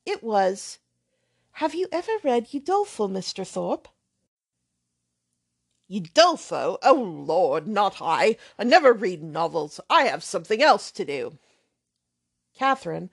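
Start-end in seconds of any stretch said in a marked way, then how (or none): 1.5-3.9 lightly voiced hesitant girl; timid young lady. Catherine asks timidly. 5.9-11.4 put-on brash, offhand young man swearing lightly; lightly voiced loud young rake; blustering braggart. Thorpe scoffs at novels.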